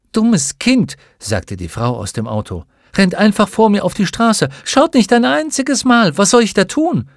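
high, loud, indignant scolding; scolding woman driver. Acted. The woman driver scolds the fallen girl, high and loud.

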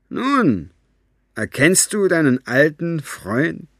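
villain showing off his captive; gloating villain. A narrator's reading. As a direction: savour the cruelty slowly. Capricorn gloats to Maggie.

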